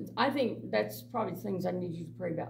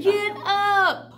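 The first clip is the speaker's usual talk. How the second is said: much higher and louder barked order, laughing through it; retold command; 13 semitones higher, 9 dB louder than usual. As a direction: order them up, half laughing. Ordering the men off couch.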